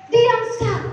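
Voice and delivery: husband shushing wife. Acted. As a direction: cut her off as the husband. Husband hushing his angry wife. (suami menyuruh istrinya diam)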